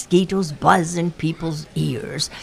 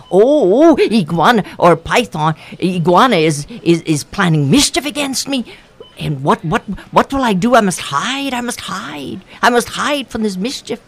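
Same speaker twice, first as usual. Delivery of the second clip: panicky Python; 3 semitones higher, 3 dB louder than usual. Acted. Python panicking, must hide.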